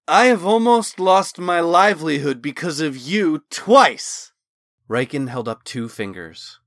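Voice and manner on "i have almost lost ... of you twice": loud, higher, bitter rant; angry diatribe. Acted. Riken blaming Talon for nearly losing his livelihood, ranting loud. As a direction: hurl the blame at him. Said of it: "He continued his diatribe".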